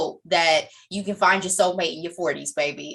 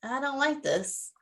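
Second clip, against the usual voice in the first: soft, near-whispered retold reaction; quietly voiced aside of dislike; hushed disapproval; 6 semitones higher, 8 dB quieter than usual. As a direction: drop your voice as if quoting a private thought. Quotes own hushed reaction.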